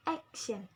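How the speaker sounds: "Action" with AC emphasized, falling after; stress on AC. Shown as a demonstration. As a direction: lean on the first syllable of "Action". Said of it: "The stress at the ek".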